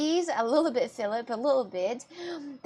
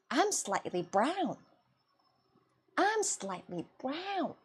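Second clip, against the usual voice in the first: very slow, softer, drawn-out insistence; deliberate correction; 6 dB quieter, slower than usual. Acted. Correcting people who call her blonde, deliberate insistence. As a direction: spell it out slowly and softly. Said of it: "And I'm like".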